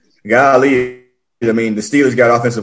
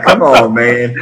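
mild mock complaint; 5 dB louder, slower than usual. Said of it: "He was definitely like".

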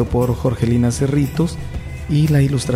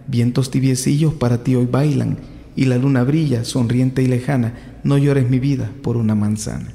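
poem reading. Acted. Reads a children's poem aloud.

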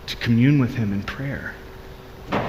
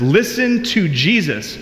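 booming voice of God; 5 semitones higher than usual. Retold or imitated. Preacher voicing God from the cloud, slow and booming. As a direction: boom it down from heaven. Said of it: "The booming voice of God from heaven says".

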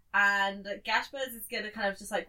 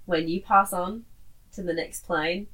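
solemn last words; 4 semitones lower, 4 dB louder than usual. Acted. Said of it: "look him dead in the eyes and be like".

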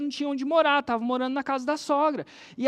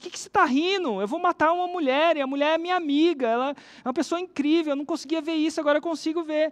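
higher, louder pleading outburst; distressed woman; 5 semitones higher, 4 dB louder than usual. Retold or imitated. Woman confronts laughing doctor, higher and agitated. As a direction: protest through rising panic.

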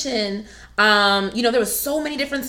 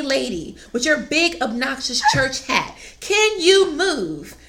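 higher, slow, impatient demand; frustrated demand; 3 semitones higher than usual. Retold or imitated. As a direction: tell the lady in the big hat to move. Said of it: "I got so frustrated".

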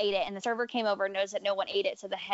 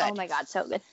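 whispered; 2 semitones lower than usual. Real, not acted. Agreeing about tasty pasta.

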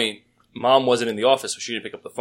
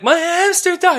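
retold crying; 4 dB louder than usual. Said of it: "He was hysterical".

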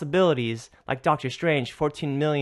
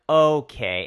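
retold angry okay; 4 dB louder than usual. Reacting to being shoulder checked.

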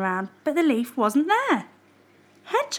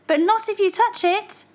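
mild mock shout; 10 semitones higher than usual. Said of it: "shouted Bear".

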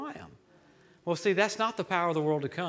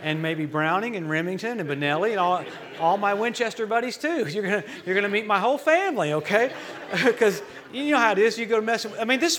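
laughing joke; 3 semitones higher, 5 dB louder than usual. Real, not acted. Joking threat about guns, laughing.

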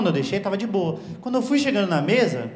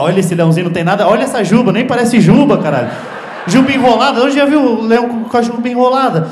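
mocking loud rant; 5 dB louder than usual. Friend mocking the lion gift.

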